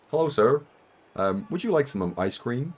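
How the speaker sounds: lightly put-on server voice; waiter voice. Waiter in Vegas offering ice cream, lightly put-on polite voice. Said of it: "to differentiate their voice from mine".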